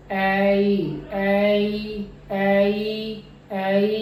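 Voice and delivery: ऐ with full first part, weak ई glide; ऐ drill. Shown as a demonstration. Teacher drilling the diphthong for the class. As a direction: repeat ऐ, opening then closing the jaw. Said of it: "तो ये sound मेरी है ऐ".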